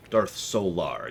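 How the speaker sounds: Solar said slow with the second syllable lar stressed; slow Darth soLAR. Shown as a demonstration. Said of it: "emphasize the second syllable".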